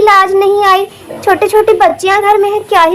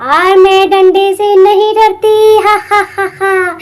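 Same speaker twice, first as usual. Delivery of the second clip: witch voice. Acted. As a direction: savour the threat like a hungry witch. Witch taunts wife.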